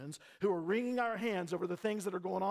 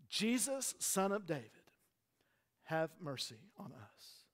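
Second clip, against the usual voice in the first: pleading prayer, gradually hushed; demonstrated prayer; 3 dB quieter than usual. Shown as a demonstration. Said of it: "You wanna know how to pray".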